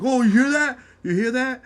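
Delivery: high, mock-outraged question; exaggerated high imitation of indignation; acted indignant callout. Imitating someone calling out in the dispute.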